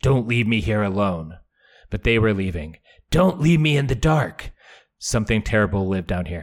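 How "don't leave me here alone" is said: pleading, begging, imploring. As the others turn to leave him in the cavern, Jaime speaks, pleading. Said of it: "Jaime pleaded".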